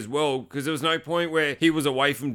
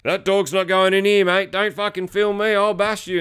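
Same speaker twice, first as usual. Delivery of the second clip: mock angry threat; 5 semitones higher, 4 dB louder than usual. Acted threats from retold old man.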